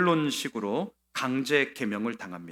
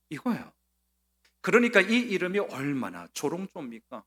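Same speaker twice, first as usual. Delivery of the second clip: ordinary delivery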